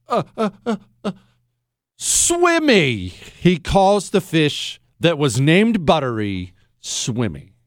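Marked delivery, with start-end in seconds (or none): 0.1-3.1 fake sobbing child. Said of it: "And he goes".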